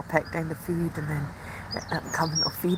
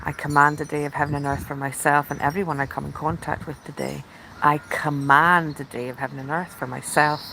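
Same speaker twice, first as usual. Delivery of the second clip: intention affirmation; 2 semitones lower than usual. Shown as a demonstration. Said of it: "that is the intention that I set".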